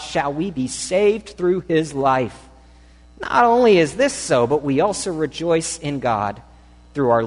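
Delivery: measured, rising scripture read; sermon reading of Romans. Acted. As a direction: read the passage with weight. Reads scripture passage.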